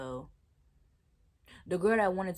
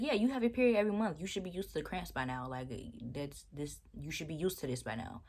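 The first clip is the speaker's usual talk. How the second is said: mocking the guy; faster than usual. Vlogger imitating the guy's dismissive reply, fast and mocking. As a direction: rattle it off like a clueless guy. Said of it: "He's like".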